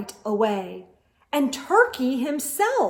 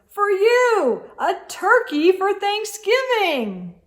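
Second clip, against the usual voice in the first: proud presenting; 10 semitones higher, 6 dB louder than usual. A narrator's reading. Moose presenting turkey.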